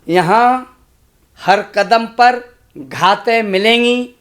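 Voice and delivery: slow, measured recitation of a moral verse; poem recitation. Acted. Poet reciting a moral quatrain to schoolchildren, slow recitation. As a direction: deliver the four lines deliberately. Recites four lines for children.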